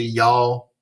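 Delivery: run-together Tennessee drawl on "Y'all, gee, it"; casual Southern Tennessee slang. Shown as a demonstration. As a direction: toss it out like Tennessee small talk. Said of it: "a lot of that in Tennessee".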